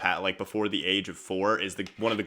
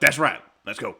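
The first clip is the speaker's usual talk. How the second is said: approving dad; 4 semitones higher, 5 dB louder than usual. Retold or imitated. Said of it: "He was like".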